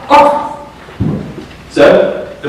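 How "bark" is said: single imitated dog bark; one short dog bark. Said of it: "my church has heard me bark".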